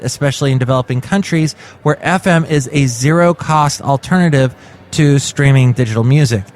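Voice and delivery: measured news-article reading; read-aloud podcast news item. Acted. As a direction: read the report out to listeners.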